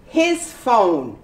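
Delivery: "His" said fully with its H; full his. Shown as a demonstration. Teacher showing "His" kept whole at sentence start. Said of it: "it's pronounced completely".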